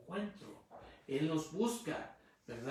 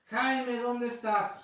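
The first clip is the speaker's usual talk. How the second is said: higher, louder call across the house; mother calling out; 7 semitones higher, 7 dB louder, slower than usual. Retold or imitated. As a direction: call for Jaime like a mother looking for her son. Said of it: "me gritaba". (grito de madre que llama a su hijo)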